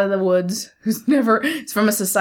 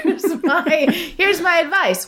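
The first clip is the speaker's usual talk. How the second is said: giggling through the words; laughing; 9 semitones higher, slower than usual. Real, not acted. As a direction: laugh while saying it. Laughing while talking.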